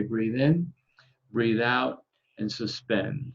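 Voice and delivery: calm guided breathing cue. Shown as a demonstration. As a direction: give the breathing cue evenly. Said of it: "I'll say".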